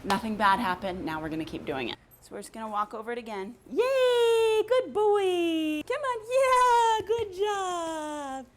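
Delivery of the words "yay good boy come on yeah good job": high-pitched praise voice. Real, not acted. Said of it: "that high-pitched voice that I've been doing".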